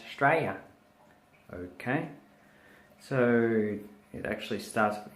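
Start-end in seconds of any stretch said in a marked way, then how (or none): 0.1-0.6 Australia clipped down to "Straya"; Aussie shortened pronunciation. Shown as a demonstration. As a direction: say "Australia" as Straya, dropping syllables. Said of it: "we say Australia as Australia".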